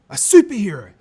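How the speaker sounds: light up with the idea; excited realisation. Acted. Gasp of sudden idea.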